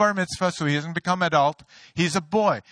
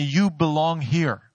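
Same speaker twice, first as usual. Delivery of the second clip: a slow, steady, lightly voiced divine voice; voice of God; slower than usual. God speaking to the pastor in his car, lightly voiced and slow. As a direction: speak it slowly as a calm voice from above. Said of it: "I heard an audible voice say to me".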